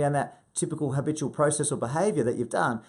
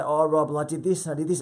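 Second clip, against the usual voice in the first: slightly raised, eager retelling; upbeat client; 3 semitones higher, 4 dB louder than usual. Retold or imitated. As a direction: imitate a client pleased with themselves. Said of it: "they're so upbeat and they're so empowered".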